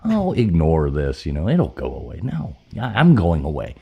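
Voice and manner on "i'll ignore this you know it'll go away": high mock voice brushing off the ghost. Mocking the ghost's hint in a high voice. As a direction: squeak it out like a dismissive ghost. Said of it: "It's like".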